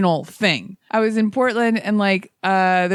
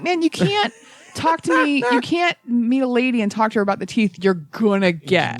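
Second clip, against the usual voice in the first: exasperated. Retold or imitated. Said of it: "And I'm like".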